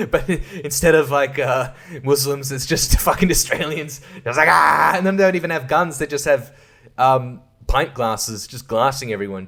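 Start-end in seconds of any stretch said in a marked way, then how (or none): 4.5-4.9 mock attack yell. Imitating attackers yelling.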